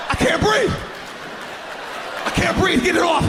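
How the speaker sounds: mock panic. Boy trapped under towel over Vicks steam, mock panic. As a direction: beg to get out from under the towel.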